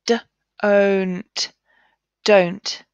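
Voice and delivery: "D, own't" split, then "don't" blended; segment, then blend; sounding out. Shown as a demonstration. Teacher blending the word don't for pupils. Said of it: "It's got the long sound".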